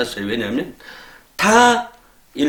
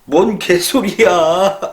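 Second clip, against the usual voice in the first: mock gruff retort; 3 semitones higher, much slower than usual. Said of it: "그래서".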